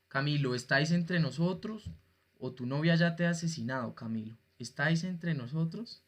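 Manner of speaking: lightly voiced séance caller summoning souls; a hint of a sorcerer's solemn summons; mock sorcerer. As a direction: play at calling up spirits, softly. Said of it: "Parezco un brujo acá, eh, convocando almas".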